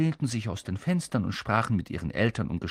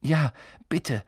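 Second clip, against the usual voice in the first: panting; 4 semitones higher, 4 dB louder than usual. Acted. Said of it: "keuchte Harry".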